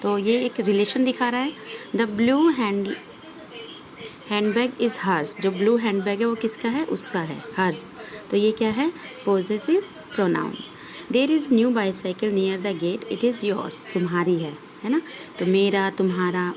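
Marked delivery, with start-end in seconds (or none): 1.9-5.4 example sentence read out slowly; teacher reading the example slowly; slow read-aloud. Shown as a demonstration. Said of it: "एक example दिए हुए हैं ना". 11.1-13.9 example sentence read out slowly; teacher reading the example slowly; slow read-aloud. Shown as a demonstration. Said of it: "एक example दिए हुए हैं ना".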